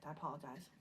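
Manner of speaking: a soft whispered apology. Real, not acted. Host whispering an apology to viewers while petting her cat, hushed whisper. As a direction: breathe it out under your breath, no voice.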